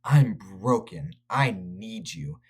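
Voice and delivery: slow, understated retold plea; imitating pleading. Bradley pleading with Linda, a mild slow plea. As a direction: draw out the words like a man close to tears, only lightly acted. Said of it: "He's crying. He's, he's pleading with Linda".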